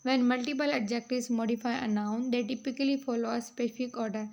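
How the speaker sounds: reading out notes, very slow and deliberate; measured classroom read-aloud; slow dictation reading. Acted. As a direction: dictate each phrase slowly for students to copy. Reads English note slowly.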